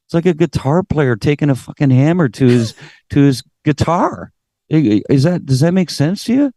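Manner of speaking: high, lively telling-off; incredulous scolding rant; scolding lecture. Retold or imitated. Lecturing the partying singer.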